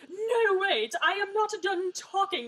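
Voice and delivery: high, loud imitation of indignation; mock indignant protest. Older brother cut off mid-lecture, mock indignant protest. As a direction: protest loudly, hammed-up and high. Acts out Bertrand protesting being interrupted.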